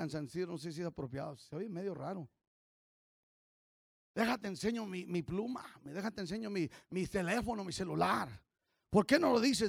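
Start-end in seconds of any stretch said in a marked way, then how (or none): 4.1-8.3 showing off. Retold or imitated. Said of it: "la gente está diciendo".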